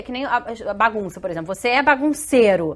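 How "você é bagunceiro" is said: acusação um pouco mais alta; rótulo dado à criança. Acted. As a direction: stress on "bagunceiro", stated as a verdict. (rotulando a criança)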